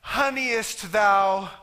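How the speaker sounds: slow, hammed-up old-English to the wife; absurdly formal question to his wife at dinner; mock formal talk. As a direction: ham up fake thee-and-thou speech. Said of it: "we don't talk like that".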